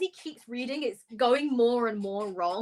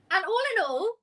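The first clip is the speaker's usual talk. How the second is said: triumphant announcement; 11 semitones higher than usual. Acted. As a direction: announce the win grandly.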